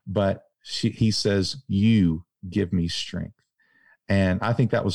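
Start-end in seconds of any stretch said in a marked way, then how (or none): 1.7-3.3 tender retold line. Shane's tender words retold again.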